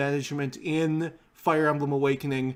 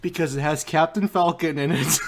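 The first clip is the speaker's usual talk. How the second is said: laughing. Real, not acted. Laughing at his own joke.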